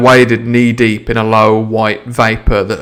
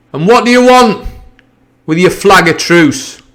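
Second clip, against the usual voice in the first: higher, louder demand; cried; 7 semitones higher, 4 dB louder than usual. Acted. Captain calling out to the mutineers, a loud demand. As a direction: call the question out sharply. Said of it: "he cried".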